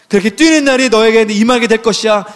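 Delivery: mildly exultant preacher's declaration; proclamation. Acted. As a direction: declare it high and firm to the congregation. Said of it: "이렇게 선포해 주시는 것입니다".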